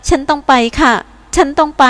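เสียงสะอื้นแผ่วๆ สูงขึ้น; สะอื้นพลางยืนกราน; สะอื้นเบาๆ. Acted. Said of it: "ฉันสะอื้น". (แวนด้าบอกเอียนว่าต้องไป สะอื้นเบาๆ)

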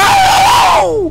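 very high, loud scream of shock; startled scream. Real, not acted. Player hit by a jump scare, startled scream. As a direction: scream out in sudden fright.

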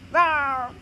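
low pretend roar; playful little dinosaur roar. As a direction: roar in mock menace. George roars at the mirror.

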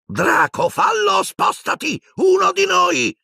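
very high screeched orders; shriek. A narrator's reading. Death Eater woman urges Draco, shrieking. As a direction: shriek frantically at him. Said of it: "strillò la donna".

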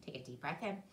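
breath in, then a stronger roar. Shown as a demonstration. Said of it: "let's get a little louder".

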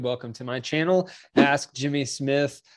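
stuffy, blocked-nose voice; congested. Real, not acted. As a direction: talk through a congested nose. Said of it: "I'm a little congested".

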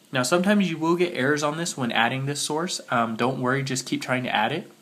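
muffled voice from a cold. Real, not acted. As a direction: talk through a blocked, sick voice. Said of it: "Sorry if I sound a little muffled, I'm sick right now".

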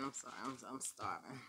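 mumbling through food; mouth full. Real, not acted. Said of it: "stuffing my mouth".

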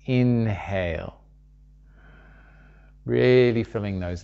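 measured meditation guide with long pauses; unhurried spoken guidance, leaving room to breathe; guided meditation. Real, not acted.

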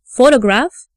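"photograph" stressed on the first syllable, PHO; stress demonstration. Shown as a demonstration. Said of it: "Consider the difference between".

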